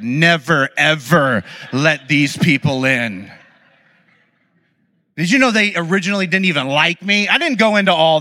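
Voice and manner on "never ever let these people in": mock stern warning. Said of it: "we're like".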